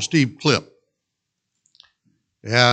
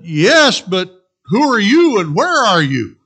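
higher, louder question; shouting up; 8 semitones higher, 10 dB louder than usual. Acted. Jack shouting up at the unseen voice, confused yell.

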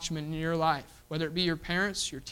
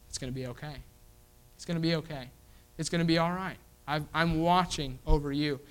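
reassuring God. Retold or imitated. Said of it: "To reassure that person".

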